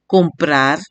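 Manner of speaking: "comprar" with PRAR drawn out; last-syllable stress. Shown as a demonstration. Teacher's example of prosodic accent, PRAR of "comprar" stretched. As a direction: lean on the end of "comprar". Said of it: "solo se pronuncia la sílaba tónica".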